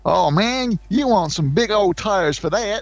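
high, far American voice; American accent. Retold or imitated. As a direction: put on a bright American drawl. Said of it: "when said in an English accent doesn't sound right".

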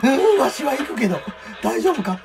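high, loud laughing yell; startled by the bomber, shout and laugh; excited shout. Real, not acted.

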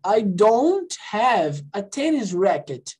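slow, clear I don't have; teacher repeating a phrase slowly; slow model. Shown as a demonstration. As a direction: model each word slowly for students. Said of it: "ó, de novo".

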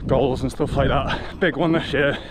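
loud and breathy, mid-jog; while running. Real, not acted. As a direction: talk while jogging along. Talking while jogging outdoors.

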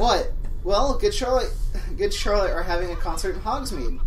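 loud fanfic read. Acted. Draco announcing the concert, loud excited fanfic read. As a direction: belt it like breaking huge news.

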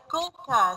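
"coca" with a k sound for each c; teacher showing the k sound in "coca"; hard C. Shown as a demonstration. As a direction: say "coca" with hard c's, as without a cedilla. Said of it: "we will pronounce it like".

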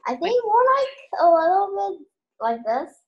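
high to low jaguar voice. Shown as a demonstration. Child trying a jaguar voice, sliding from high to low. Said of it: "Like high to low".

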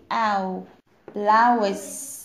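"او" held as "ow", then "blouse" with that vowel; OU sound. Shown as a demonstration. Teacher answering what OU sounds like, "ow" then "blouse". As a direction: isolate a falling "ow", then put it into "blouse". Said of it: "صوتها ايه؟".

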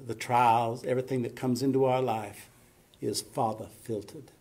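lightly imitated Southern drawl, r's dropped in "father filtered"; a hint of deep Southern drawl. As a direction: quote her in a Southern accent. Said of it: "real deep Southern, Southern drawl".

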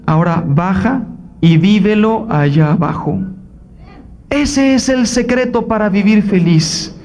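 Cristo grave y sereno al revelar el secreto; grave, dando un secreto con calma; voz de Cristo. Acted. (Cristo le revela el secreto a ella, grave y sereno)

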